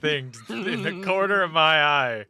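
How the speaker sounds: laughing through the words. Real, not acted. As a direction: speak while cracking up. Reacting laughing to cursed image.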